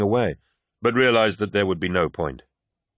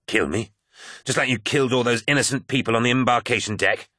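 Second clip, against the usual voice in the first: shouting; 4 semitones higher than usual. Acted. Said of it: "shouted Carcasey".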